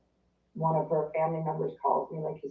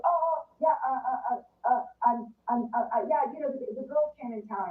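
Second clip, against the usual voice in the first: high, halting string of uhs; evasive stammering; 7 semitones higher than usual. Retold or imitated. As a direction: imitate someone fumbling for an excuse, pitched up. Acting out friend's evasive phone excuse.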